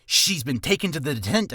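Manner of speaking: "detent-" tripped over and cut off; tongue slip. Shown as a demonstration. Tongue twister demo, tripping mid-word. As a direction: stumble on "detention" and break off. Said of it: "uh, see?".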